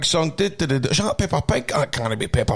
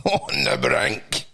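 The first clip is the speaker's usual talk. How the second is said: mock dramatic; 11 semitones lower, much slower than usual. Shown as a demonstration. Mocking the headline to his co-host, deep and slow. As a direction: drop very low and slow, laughing. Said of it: "comments show man on the brink".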